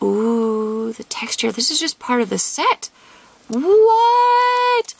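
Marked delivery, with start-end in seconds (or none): 3.5-4.9 high, loud disbelieving what; shocked what. Real, not acted. Stunned by the card's rarity, loud shocked question. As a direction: blurt it in disbelief.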